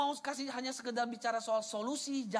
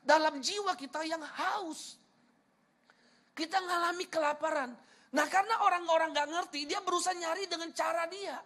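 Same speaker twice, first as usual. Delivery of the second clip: raised, earnest sermon voice; impassioned preaching; 8 semitones higher, 5 dB louder than usual. Real, not acted. Preacher explaining the thirsty soul to congregation, earnest. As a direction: press the point home, pitched high.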